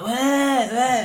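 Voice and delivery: high-pitched mock junkie answer; junkie imitation. Junkie answering angry car owner, high uncomprehending what. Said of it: "he was just a pure junkie".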